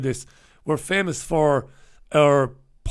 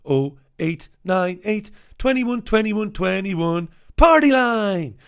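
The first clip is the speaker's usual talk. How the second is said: TV ad jingle; 4 semitones higher, slower than usual. Retold or imitated. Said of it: "do you remember those ads on T V".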